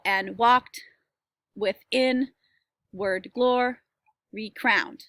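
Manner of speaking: slow scansion, and WALKED with IN-ward GLOR-y CROWNED; iambic stress. Shown as a demonstration. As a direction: beat out "and walked with inward glory crowned" foot by foot, every second syllable hit. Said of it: "one unstressed and one stressed".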